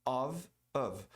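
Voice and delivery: Of, of run together fast and reduced; quick weak of. Shown as a demonstration. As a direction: say Of, of quickly, as inside a sentence. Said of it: "Quando você pronuncia rápido". (of fraco e rápido no meio da frase)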